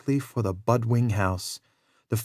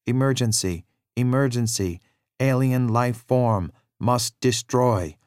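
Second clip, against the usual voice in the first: robot voice. Acted. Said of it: "he spoke in an odd mechanical voice".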